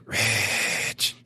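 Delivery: drawn-out, grudging call of a name. Retold or imitated. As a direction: call his name like you hold a grudge. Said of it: "It sounded like some grudge".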